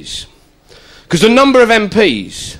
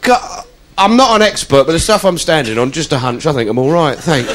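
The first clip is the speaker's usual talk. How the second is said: polite brush-off; 4 semitones lower than usual. Retold or imitated. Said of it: "what I'd normally do is go".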